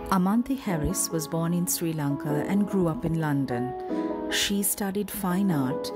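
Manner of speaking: measured, scripted introduction read; announcer bio read. Acted. Host introduces a guest author to listeners, announcer bio read. Reads author biography over music.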